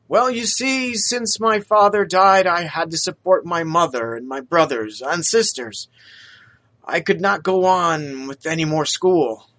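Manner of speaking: put-on a poor young man, eager to please; lightly voiced humble lad; street lad Topper. Topper tells hardship.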